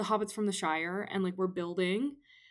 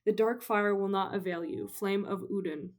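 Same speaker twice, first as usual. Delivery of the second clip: lightly voiced Gandalf. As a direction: read it as a grave wizard, lightly. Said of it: "read this little paragraph".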